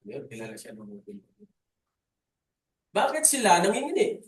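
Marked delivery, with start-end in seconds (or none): 2.9-4.2 higher, louder rhetorical question to the congregation; booming question. Shown as a demonstration. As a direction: throw the question out loud and high. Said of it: "Tanong natin".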